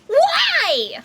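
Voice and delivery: high, drawn-out wail; anguished cry. Acted. Fran learns the bird hid her page, wailing. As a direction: wail it in dismay.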